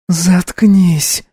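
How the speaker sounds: put-on a girl growls shut up; growled. A narrator's reading. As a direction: bark it at him. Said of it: "прорычала сидящая на полу девушка".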